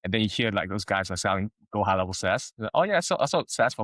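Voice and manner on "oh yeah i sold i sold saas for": breezy boasting seller. Retold or imitated. Quoting SaaS sellers boasting.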